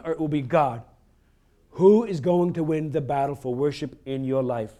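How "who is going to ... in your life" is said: a slower, deliberate repeat of the question; said slowly. Shown as a demonstration. Pastor repeats the question slowly for the congregation. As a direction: lean on each word so it sinks in. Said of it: "I'm gonna say that slowly".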